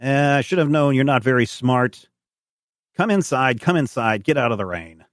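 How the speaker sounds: lightly voiced old farmer; a hint of old farmer; old farmer, relenting. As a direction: grudgingly take in a stranger, lightly in character. Game master voices old farmer.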